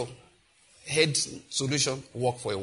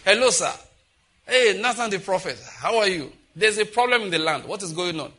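loud, raised-pitch welcome; hearty greeting; 3 semitones higher, 5 dB louder than usual. Acted. David greeting Nathan the prophet who just strolled in, hearty. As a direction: hail a visitor loudly.

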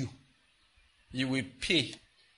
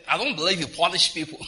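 mock pleading sinner; 4 semitones higher, 5 dB louder than usual. Sinner's excuse acted out.

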